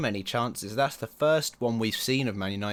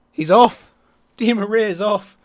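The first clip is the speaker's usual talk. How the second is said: excited shout; 9 semitones higher, 14 dB louder, slower than usual. Real, not acted. Rival star sent off, celebrating.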